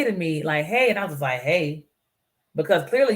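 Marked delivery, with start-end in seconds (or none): 0.6-0.9 higher-pitched, upbeat "hey"; imitated friendly greeting. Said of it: "why they say it like that". 1.4-1.9 imitated curt greeting. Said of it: "why they say it like that".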